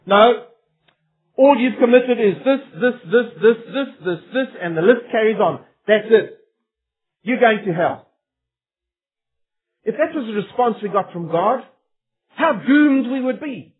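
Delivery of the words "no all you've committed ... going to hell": lightly voiced stern judge reeling off charges; a hint of God reading out a damning list; God passing judgment. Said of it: "He says to me, and He says to you and I".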